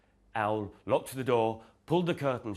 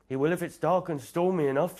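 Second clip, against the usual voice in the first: high, loud shivery rabbit voice; a scared rabbit trembling about the storm; shivering; 9 semitones higher, 6 dB louder than usual. Acted. Rabbit frightened of the stormy night, shivering. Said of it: "shivered Rabbit".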